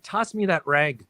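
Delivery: slow, with "rag" close to "reg"; Minnesota "rag". Retold or imitated. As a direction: say "rag" in old Minnesota vowels. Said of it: "I called it".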